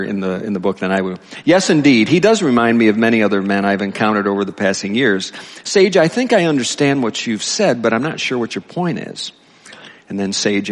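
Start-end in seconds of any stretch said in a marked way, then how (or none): 1.4-9.3 lightly projected story reading; reading aloud. A narrator's reading. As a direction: read it out emphatically to a congregation. Reads book dialogue aloud.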